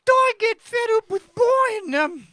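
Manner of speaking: high, loud, slow Welsh accent; hammed-up Welsh accent, pitched high. Shown as a demonstration. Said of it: "you're doing accents now".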